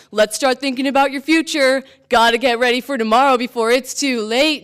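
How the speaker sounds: loud, insistent parental lecture; urging father. Retold or imitated. Father urges child to prepare for future, insistent lecture. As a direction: press the warning loudly, like a nagging father. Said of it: "he started saying things like".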